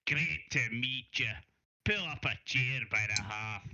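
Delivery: lightly voiced Scottish welcome; a hint of a Scottish accent. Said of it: "Scottish guy doing a Scottish accent".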